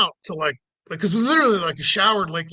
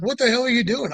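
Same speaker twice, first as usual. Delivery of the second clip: higher, mildly irate quoted challenge; retold irate cop; 5 semitones higher than usual. Cop confronting driver at window, mock irate. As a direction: imitate an indignant demand.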